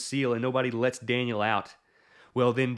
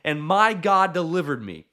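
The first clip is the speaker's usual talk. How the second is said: tag; 4 semitones higher than usual. Acted. Daniel's answer to king acted.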